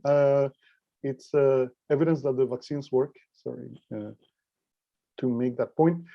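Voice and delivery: weak, thin voice from a cold; sick, weak thin voice; thin reedy voice. Real, not acted. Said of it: "my voice is going to be a little bit, um, weak".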